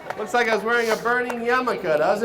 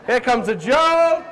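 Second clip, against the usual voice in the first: slow cue; 2 semitones higher, 5 dB louder, slower than usual. Shown as a demonstration. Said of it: "Let's practice that".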